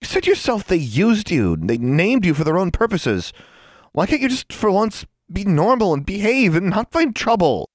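high, loud outburst on the verge of tears; angry outburst. A narrator's reading. Anna to her friend leaving on a quest, tearfully angry. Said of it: "like an angry firecracker, throwing sparks".

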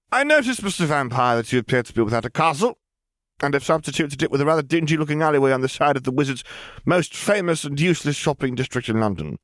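put-on high, fast girl's voice, childish yet adult; a know-it-all kid teasing; chattering girl. Girl teases the vampire, high and fast. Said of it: "the floodgate of words flew out".

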